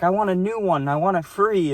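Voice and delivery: mimicking a cranky old customer; old lady. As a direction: squeak it like an irate old woman. Angry old lady voiced in story.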